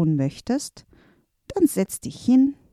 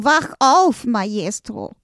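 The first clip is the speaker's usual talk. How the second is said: desperate shout; 3 semitones higher, 4 dB louder, slower than usual. Acted. Helper shouts to wake the master, desperate. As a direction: yell him awake, pleading. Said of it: "und rief verzweifelt".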